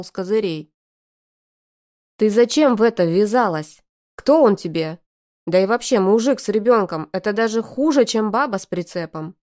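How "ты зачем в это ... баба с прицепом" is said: brother's reproach. Acted. Brother scolds sister at once.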